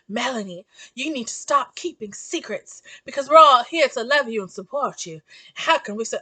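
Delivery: a touch of a Charleston lilt; Charleston accent. Retold or imitated. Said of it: "I'm trying to do a Charleston accent".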